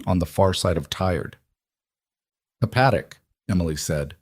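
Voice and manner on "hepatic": "Hepatic" said as a statement, with a falling end; statement, not question. A narrator's reading. Emily to Owens at the bay, "Hepatic" stated, not asked. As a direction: let "Hepatic" drop at the end, no questioning lift. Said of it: "Not a question".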